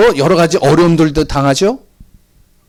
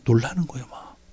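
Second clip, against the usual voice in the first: whisper; 5 semitones lower, 10 dB quieter than usual. Acted. Describing unbelievers' fright.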